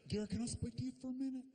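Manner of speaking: clipped urgent aside; tight mom. Retold or imitated. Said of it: "mom pulls son aside".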